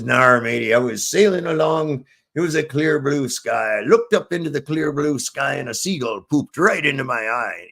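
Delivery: lightly voiced joke pirate; a hint of pirate talk. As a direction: growl the "Arr" like an old sea dog. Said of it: "are you a pirate?".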